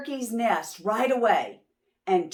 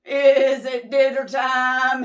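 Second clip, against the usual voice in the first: loud, higher bellow; bellowing sheep; 4 semitones higher, 8 dB louder than usual. Acted. Sheep bellowing down the hillside to Moose. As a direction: call it out across the hill. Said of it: "he bellowed".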